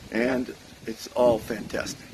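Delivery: slow, nearly voiceless, voice giving out; losing voice. Real, not acted. Host losing his voice on his morning vlog, half-whispered. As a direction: push the words out with a failing voice. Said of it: "I'm losing my voice again".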